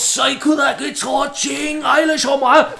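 high, loud put-on shout at a customer; shrill comic outburst in a broken accent; mock shouting restaurant worker. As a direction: yell it like an angry cook throwing food.

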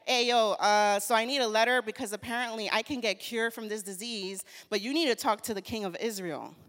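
loud, fast, laid-back retelling of Naaman; quick, loud, offhand buddy talk; casual modern dude. Retold or imitated. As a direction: play Naaman as a chill guy asking a favour. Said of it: "and he's like".

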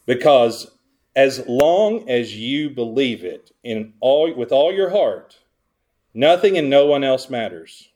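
mock a feel-good creed with a straight face; sarcastic. Preacher mimicking society's creed of self-belief, mildly sarcastic. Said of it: "Hear, hear the sarcasm".

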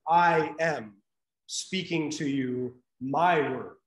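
slow, firm declaration; authoritative quote. Retold or imitated. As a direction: claim the words as your own, with weight. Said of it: "No, Jesus says".

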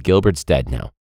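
gruff family member laying down the law; mock stern parent. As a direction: drop the pitch and deliver it deadpan. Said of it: "they're like".

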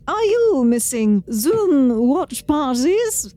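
lilting TV chef delivery; Julia Child voice. Pretend. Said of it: "what accent or style should I do it in".

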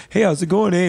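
mock Mexican accent. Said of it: "the Mexicans and Canadians both say".

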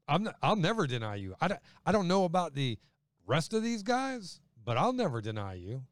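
protesting. Retold or imitated. Peter protesting to Jesus.

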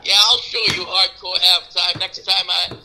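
nasal stuffed-up voice from a cold; stuffed nose. Real, not acted. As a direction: speak like your nose is blocked by a clothespin. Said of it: "It sounds like you have a clothespin on your nose".

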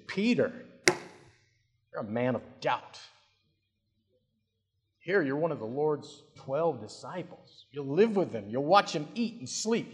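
a hint of a sniffy, scolding churchgoer; lightly mock the smug critic looking down on Peter; self-righteous judgmental Christian. Preacher lightly voicing a judgmental Christian scolding Peter. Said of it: "I can hear the voice of the self-righteous, judgmental Christian".

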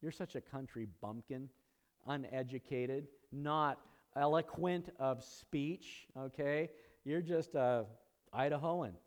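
a touch of sneering at a country bumpkin; lightly mocking the bumpkin; mock scorn. Jerusalem folk sneering at the Galileans, lightly mocking. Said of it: "looked down upon by the people of Jerusalem".

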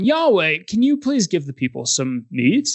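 a humble, polite plea to God; polite request. Pretend. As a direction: Moses politely asking Yahweh for meat. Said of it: "instead of going".

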